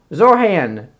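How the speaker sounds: Zoran with a breathed H, ZOR-han; attempted pronunciation. Shown as a demonstration. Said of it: "I can't pronounce it".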